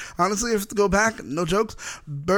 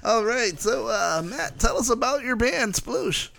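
morning radio host; 4 semitones higher, slower than usual. Acted. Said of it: "That's like a morning radio".

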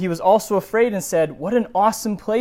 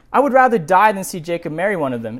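mock Rebekah complaint; faster than usual. Rebekah dramatically complaining to her husband Isaac, hammed up.

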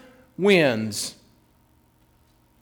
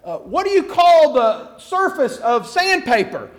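lightly acted, higher-pitched quiz question; coaxing dog owner; 4 semitones higher than usual. Dog owner quizzing his dog, lightly coaxing. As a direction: prompt the dog in a raised voice. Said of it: "he turns to Fido".

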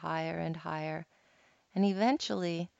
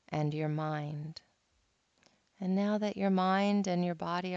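guided meditation. Acted. Resumes guided meditation after anecdote.

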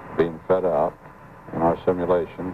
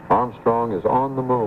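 awed announcement; 4 semitones higher than usual. Real, not acted. Anchor announces moon landing.

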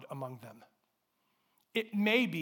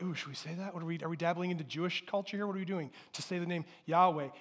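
softer, fast, hushed worried questions; mock nervous hesitation; 5 dB quieter, faster than usual. Pastor voicing Americans unsure of saying Yahweh, mock nervous. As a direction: imitate a wary churchgoer. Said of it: "we hear that and we're like".

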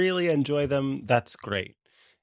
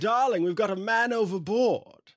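put-on posh accent; 6 semitones higher than usual. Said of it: "I don't know what this accent is".

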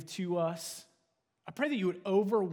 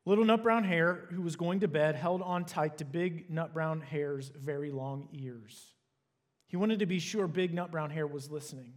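gentle bedtime-story reading; reading to children. Acted. Pastor reading a bedtime picture book to the congregation, storytelling voice. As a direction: read it like tucking the kids in.

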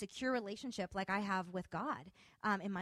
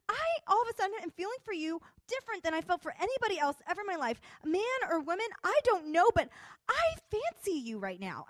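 high, rushing retold outburst; worked up, pitch held high throughout; agitated confession; 9 semitones higher, 4 dB louder than usual. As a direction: imitate her blurting out her feelings.

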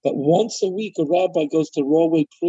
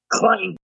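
single higher-pitched clang; imitated door clang; 4 semitones higher than usual. Rabbi mimics the prison door, sudden clang. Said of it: "you really hear it".

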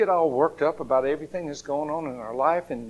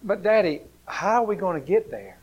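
put-on child; 4 semitones higher than usual. Child asking Father.

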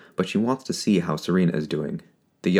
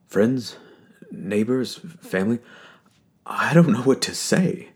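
put-on higher, trembling old priest; shaky emotional voice; 5 semitones higher than usual. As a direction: hold back tears while greeting. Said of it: "His voice is shaky and low".

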